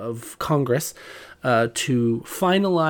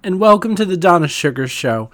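femme fatale; 4 semitones higher, 6 dB louder than usual. Acted. Sultry host greeting listeners.

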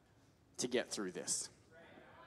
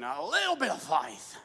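Brian Houston impression. Shown as a demonstration. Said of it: "say it like Brian Houston".

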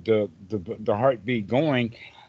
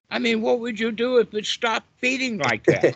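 teasing rhetorical question; 10 semitones higher than usual. Real, not acted. Playful rhetorical question to class.

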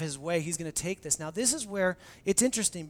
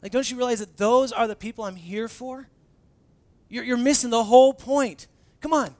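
exasperated; 5 semitones higher, 10 dB louder than usual. Retold or imitated. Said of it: "he's like".

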